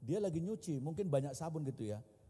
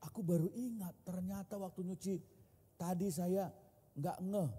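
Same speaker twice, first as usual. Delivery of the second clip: higher-pitched imitation of dismay; dismayed wife; 4 semitones higher than usual. Wife admits losing ring while washing, higher dismayed voice. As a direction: lightly voice a wife's realisation, pitched up. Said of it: "Lalu dia bilang".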